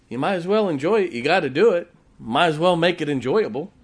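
loud, high, quick; preacher turning story into sermon; enthusiastic. Retold or imitated. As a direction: punch the life lesson.

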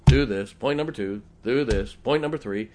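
a preacher counting off numbered points, with loud punches on do this; Doctor Roberson's way of talking. Retold or imitated. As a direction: tick off each point like an old pulpit preacher laying out orders. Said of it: "he would talk just like this".

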